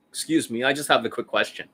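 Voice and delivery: soft, unthreatening polite question. Shown as a demonstration. Coach demonstrating a turned-away approach to a woman, softly. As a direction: ask casually and softly, posing no threat.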